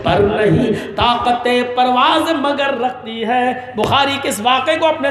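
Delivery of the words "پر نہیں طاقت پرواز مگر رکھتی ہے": slow recited couplet; poem recitation. Acted. Preacher slowly recites an Urdu couplet to listeners.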